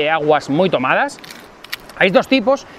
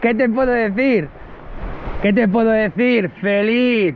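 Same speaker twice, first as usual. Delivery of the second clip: high, elated and repeating; overjoyed, pitched well up; happy, elated; 6 semitones higher than usual. Real, not acted. Angler tells viewers about his catch, elated. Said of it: "Feliz, gente, feliz, feliz".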